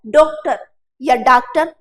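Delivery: first डॉक्टर as 'DOKE-tar', second as 'DAAK-tar'; two wrong vowels. Shown as a demonstration. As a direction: contrast closed o, then long aa in डॉक्टर. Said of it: "नहीं जम रहा है".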